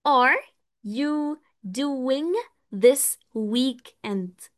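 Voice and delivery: every word stretched out slowly; slow model question. Shown as a demonstration. Teacher modelling the question slowly. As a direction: ask it slowly so students catch it. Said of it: "أقول له".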